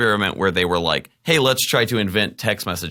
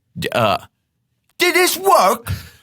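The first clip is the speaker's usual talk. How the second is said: put-on British accent, very high and loud; 4 dB louder than usual. Saying phrases on request, in a British accent. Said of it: "say all of these in a British accent".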